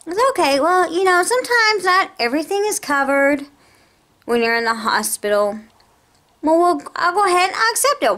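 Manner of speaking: a hint of a chirpy call-centre rep; mimicking the insurance agent. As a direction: play the breezy phone agent brushing it off. Retelling the insurance agent's words.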